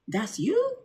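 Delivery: high, surprised "that's you?"; surprised stranger. Retold or imitated. Stranger asking in high surprise. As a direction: pitch it up like a startled fan. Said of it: "the other person would have been like".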